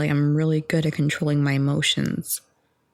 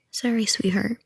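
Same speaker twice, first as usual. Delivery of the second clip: whispered apology; 4 semitones higher than usual. Real, not acted. Apologizing to the listener for rambling, whispered.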